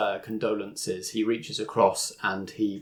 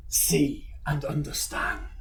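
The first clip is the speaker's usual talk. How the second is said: demon voice; 5 semitones higher than usual. Acted. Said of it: "He speaks".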